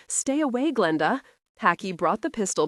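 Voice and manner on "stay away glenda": a sharp, higher yell of warning. Acted. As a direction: call out to keep her away. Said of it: "James yelled".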